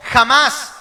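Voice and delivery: shouted for the crowd to echo; loud call. Shown as a demonstration. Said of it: "diga conmigo".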